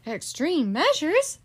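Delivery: high, slow worried question; Baby can't believe what she hears; alarmed echo. Acted. Baby echoing her sister in alarm, slow and high.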